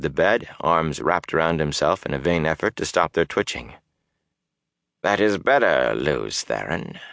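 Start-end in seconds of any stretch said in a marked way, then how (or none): 5.0-7.0 lightly voiced sinister villain; a hint of gloating menace; menacing dark lord. Baalzamon voiced.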